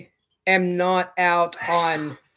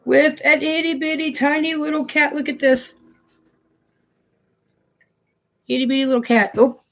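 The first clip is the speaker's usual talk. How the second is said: high-pitched gushing over something tiny; cutesy cooing; 6 semitones higher than usual. Real, not acted. Showing viewers a tiny cat, cutesy cooing. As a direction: coo at it like a cute little thing.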